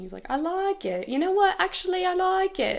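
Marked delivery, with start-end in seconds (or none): 0.3-1.1 light, brief, pitched-up put-on British accent. Repeating what a man just said, copying his UK accent. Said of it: "I didn't mean to copy his accent".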